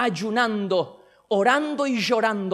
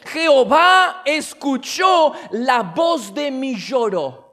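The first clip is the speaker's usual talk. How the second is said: quoting David; 2 semitones higher, 6 dB louder, slower than usual. Acted. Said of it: "el mismo David dice".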